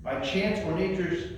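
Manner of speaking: measured, unhurried recitation of a sonnet; poem reading. Acted. Presenter reads Sonnet eighteen to the audience, recited as a poem. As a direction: read each line as verse with a pause after it.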